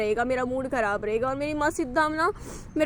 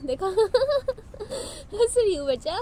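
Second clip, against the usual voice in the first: slow, higher laugh through tears; forced laugh; 5 semitones higher, much slower than usual. Real, not acted. Mother to her toddler, forcing a slow laugh through tears. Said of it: "हंस रही हूँ बेटा".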